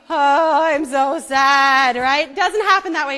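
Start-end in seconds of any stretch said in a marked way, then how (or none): 0.1-1.9 mock weeping. Shown as a demonstration. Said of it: "you don't weep".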